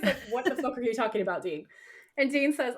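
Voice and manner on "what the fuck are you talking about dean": shook Sam. Retold or imitated. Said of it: "Sam is shook".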